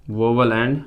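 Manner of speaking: each word stretched out for students to copy; slow teacher dictation. Shown as a demonstration. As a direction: dictate slowly and clearly. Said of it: "लिखो इसको".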